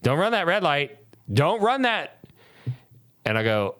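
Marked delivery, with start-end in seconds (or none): 0.0-2.2 put-on frantic drunk warning. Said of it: "And I'm like".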